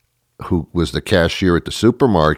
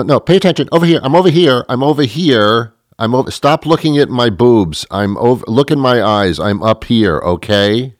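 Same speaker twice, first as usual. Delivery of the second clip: raised, louder scolding for attention; mock indignation; 3 semitones higher, 3 dB louder than usual. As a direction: play offended and insist on eye contact. Plays offended at being ogled.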